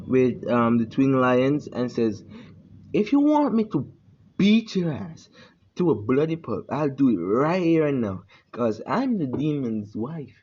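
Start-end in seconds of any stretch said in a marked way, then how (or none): 2.9-10.3 threatening challenge. Acted. Hinata threatens the clan head.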